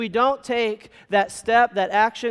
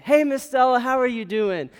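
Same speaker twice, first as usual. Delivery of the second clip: higher, louder friendly hello; friendly greeting; 6 semitones higher, 4 dB louder than usual. Retold or imitated. Student to lunch lady in cafeteria, friendly greeting. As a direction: call out a greeting to someone you like.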